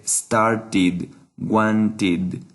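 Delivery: STARTED and WANTED each with a separate "id" syllable; "id" ending. Shown as a demonstration. Teacher giving examples to students, STARTED and WANTED ending in "id". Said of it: "simplemente pronunciamos id".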